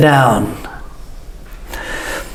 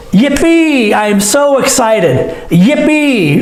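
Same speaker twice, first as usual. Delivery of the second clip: high cheerful yippee; excited yippee; 5 semitones higher, slower than usual. Shown as a demonstration. Teacher showing excitement, a bright yippee. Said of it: "When we're excited".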